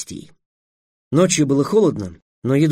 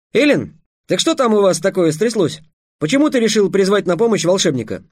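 higher, lively inquiry; curious questioning; 6 semitones higher than usual. Acted. Trix asking the dragon why he summoned a wizard, inquisitive. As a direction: call over and ask, voice lifted.

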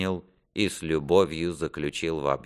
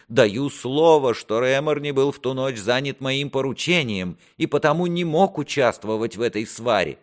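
higher-pitched, earnest vow as a prince; pleading prince; 8 semitones higher, 4 dB louder than usual. Acted. Prince vouches to his father for Реморни, earnest. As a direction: vouch for your favourite in a raised pitch.

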